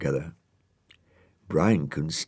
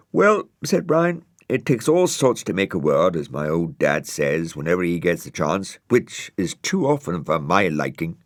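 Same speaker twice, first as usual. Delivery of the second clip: snail voice; 4 dB louder than usual. Acted. Brian voiced high.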